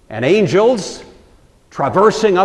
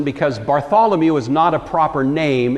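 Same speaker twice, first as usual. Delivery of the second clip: ordinary talk, nothing marked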